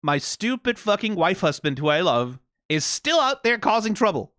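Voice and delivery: mock-frustrated husband rant; exasperated spouse. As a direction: complain about a reckless partner with love. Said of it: "And no".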